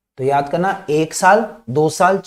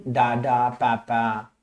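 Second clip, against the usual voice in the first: slow, lightly imitated baby babble; baby's bisyllables; 4 semitones lower, 4 dB quieter, much slower than usual. Shown as a demonstration. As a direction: draw out the doubled syllables. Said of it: "now he is doing".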